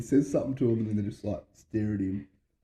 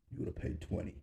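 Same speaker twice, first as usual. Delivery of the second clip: laughing aside; 8 semitones higher, faster than usual. Retold or imitated. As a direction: slip the punchline out through a laugh. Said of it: "He's like".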